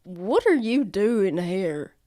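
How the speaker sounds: slow stern guard challenge; a guard demanding answers, slowly. Acted. Guard confronts intruder.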